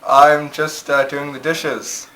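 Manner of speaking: calling back. Pretend. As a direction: shout back a hesitant excuse. Calls back to the other room.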